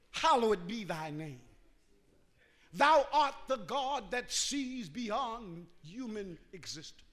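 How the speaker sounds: put-on measured, old-fashioned prayer address; formal prayer. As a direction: recite a stately prayer in lofty words. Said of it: "all those thous and thises are gone".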